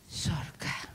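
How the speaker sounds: sudden hushed whisper. Acted. Preacher whispering the punchline to the congregation. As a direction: drop to a secret whisper. Hushed after loud line.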